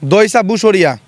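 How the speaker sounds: আবু সাইদ flipped as দইসা বুসরিয়া; backwards speech. Shown as a demonstration. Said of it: "আবু সাইদ".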